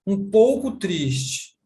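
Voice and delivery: "um pouco triste" said slowly; slow demo. Shown as a demonstration. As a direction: stretch it out gently. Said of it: "Ah, eu estou". (demonstração lenta de "um pouco triste")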